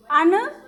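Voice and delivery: अनधिकार with a short अ after अन; अनधिकार, short अ clearly; correct form shown. Shown as a demonstration. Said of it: "शुद्ध शब्द है आपका अनअधिकार".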